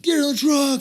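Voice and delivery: high, shouted American order; mock American shout; exaggerated American accent. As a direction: overdo the American official barking orders. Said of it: "obviously over-exaggerating, it's American".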